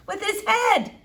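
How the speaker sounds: emphatic Flora. A narrator's reading. Girl explaining the accident, emphatic and slow. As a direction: spell it out for the doctor.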